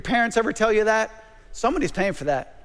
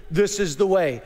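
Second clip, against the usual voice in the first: Mandalorian line; 4 semitones lower than usual. Retold or imitated. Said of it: "I can't even say it like they do".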